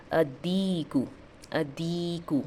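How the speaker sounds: "अदीकु" with a doubled d and no l; teacher's careful model of "अदीकु", l dropped; merged lam. Shown as a demonstration. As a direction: hold the d and long ee in "अदीकु". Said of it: "letter का merging हो रहा है".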